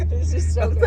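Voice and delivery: high laughing answer. Real, not acted. Owner laughing as the camel nips her guest.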